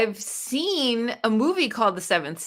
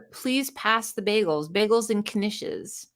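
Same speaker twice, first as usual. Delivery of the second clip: put-on slow, softer Southern American accent; mock Southern accent; 4 dB quieter, slower than usual. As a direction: drawl the bagels line like a US Southerner. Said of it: "That's a Southern accent".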